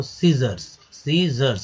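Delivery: सीजर्स as "SEE-zurs", ending drawn out. Shown as a demonstration. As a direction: say सीजर्स in two clear syllables. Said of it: "उसको घींच कर बोलते हैं लोग".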